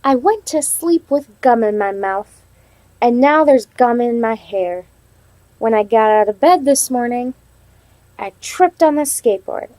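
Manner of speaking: storybook read-aloud to the class; reading to children. Acted. Teacher reading the story to her class, storybook voice. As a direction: read it like a picture book for kids.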